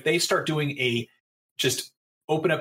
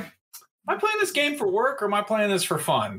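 questioning inner voice; 8 semitones higher than usual. Retold or imitated. Inner voice quote, raised pitch.

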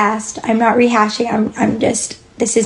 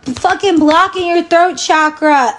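higher mock voice, laughing; laughing mockery; 6 semitones higher than usual. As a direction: laugh through the jab. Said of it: "everybody telling everybody that".

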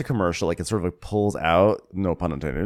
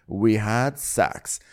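smug announcement; 2 semitones higher, much slower than usual. Retold or imitated. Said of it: "She's gonna say".

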